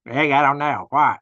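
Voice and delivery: boss's way of talking. Retold or imitated. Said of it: "That's the way he talked".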